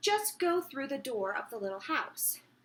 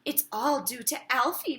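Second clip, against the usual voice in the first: slightly breathless; 3 dB louder than usual. Acted. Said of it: "slightly breathless".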